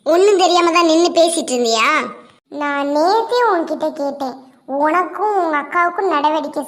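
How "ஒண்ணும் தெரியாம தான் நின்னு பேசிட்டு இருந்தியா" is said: loud, accusing question; angry rebuke. Acted. Sister-in-law challenges crying girl's denial, angry. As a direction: throw her excuse back at her loudly.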